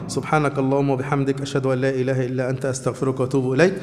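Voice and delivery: formal prayer in even, level phrases; closing supplication. Real, not acted. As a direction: recite a closing dua in steady Arabic cadence. (دعاء ختام بإيقاع ثابت)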